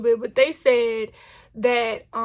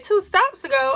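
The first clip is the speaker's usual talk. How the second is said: higher, incredulous echo of the words; shocked disbelief; 6 semitones higher than usual. Retold or imitated. Retelling the conductor's news to viewers, shocked disbelief. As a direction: repeat it back like you can't believe it. Shocked at missing her stop.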